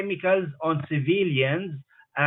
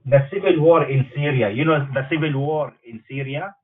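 speakerphone; 7 dB louder than usual. Real, not acted. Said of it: "Yes, I'm on speakerphone".

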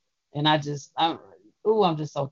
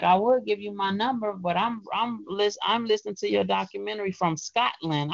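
higher, lightly voiced young woman caller; a hint of her excited voice; imitating the caller; 5 semitones higher than usual. Retelling the woman who called from Scotland, lightly voiced.

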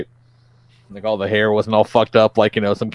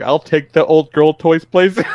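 hint of a weirdo customer, higher and slow; lightly mocked buyer, louder on the last word; mock eager weirdo; 5 semitones higher, 3 dB louder, slower than usual. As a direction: play up a slightly higher, drawn-out weirdo request. Imitating weirdo buying girls' toys.

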